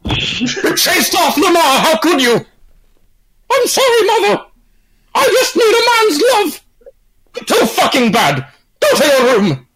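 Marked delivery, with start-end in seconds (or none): 0.1-6.6 high, slow mock sobbing; hammed-up wailing. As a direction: whine it like a heartbroken son. Son accusing mother, crying.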